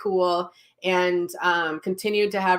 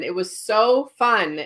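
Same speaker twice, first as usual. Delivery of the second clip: ordinary talk, nothing marked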